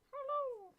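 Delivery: high laughing hello; laughing squeal. Real, not acted. Greeting animated avatar, laughing.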